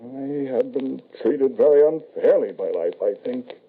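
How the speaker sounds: grief spilling over into self-pity; bitter lament. Acted. Widowed father mourns his wife and son to the medium, high and aching.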